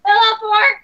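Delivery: loud, gleeful yell; excited shout. Acted. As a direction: cheer it out with glee. Shouting pillow fort together.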